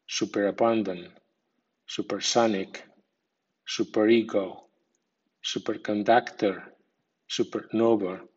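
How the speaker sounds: secondary stress on super in superabundant, supersonic, superego, superconductor, supernova; super-SONIC, super-NOVA pattern on each word; medium stress on prefix. Shown as a demonstration. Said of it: "con acento medio".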